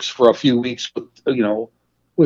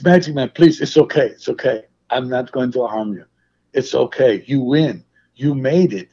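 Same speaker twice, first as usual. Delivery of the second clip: imitated reassurance; 2 semitones lower than usual. Retold wrestler soothing him, broken English.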